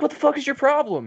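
high, loud mock screaming fit; the lady screaming at the helpful guy, high and loud; retold scream. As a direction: shriek it at him like she's lost it. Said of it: "the lady was just screaming at him".

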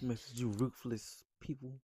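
talking while chewing; words through a mouthful; mouth full. Real, not acted. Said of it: "You still chewing?".

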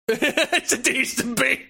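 slow, high quoted line; quoted catchphrase. Retold or imitated. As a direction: savor the catchphrase slowly. Quoting a Jackass line.

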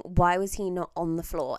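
usual speaking voice

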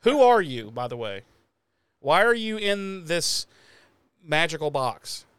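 hammed-up lost old man, high and loud; mock bewildered. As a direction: play dazed and confused. Mock confused, pretending amnesia.

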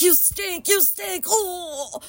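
high-pitched giggling accusation; squealing, half-laughing while gagging; laughing you stink. Retold or imitated. Laughing, still gagging at friend.

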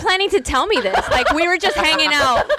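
playfully indignant through laughter; mock outrage. Teasing co-host over secret Portuguese roots, laughing mock outrage. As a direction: act betrayed, laughing as you go.

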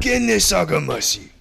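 put-on Japanese accent; hammed-up Japanese accent; mock Japanese accent. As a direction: give it a mock Japanese delivery. Mock Japanese line to copy.

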